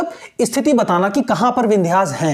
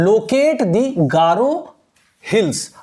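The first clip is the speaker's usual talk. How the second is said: slow reading aloud; much slower than usual. Shown as a demonstration. Reads the question aloud.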